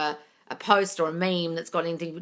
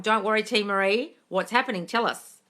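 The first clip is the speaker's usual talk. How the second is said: ordinary talk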